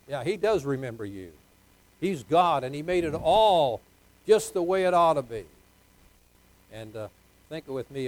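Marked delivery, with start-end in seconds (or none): 2.0-5.4 emphatic preaching. Real, not acted. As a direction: preach it with rising force. Preaches with raised force.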